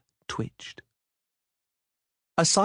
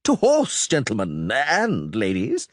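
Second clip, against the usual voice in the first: crying out; 3 semitones higher, 3 dB louder, slower than usual. Acted. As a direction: rouse the whole party. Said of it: "cried Dandelion".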